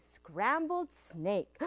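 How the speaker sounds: sly mouse. Acted. Mouse taunts Snake with menu.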